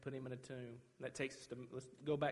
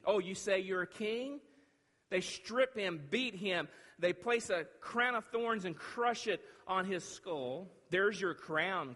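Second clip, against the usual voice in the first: forceful preaching; 6 semitones higher, 5 dB louder, slower than usual. Real, not acted. Preaches the crowning with thorns.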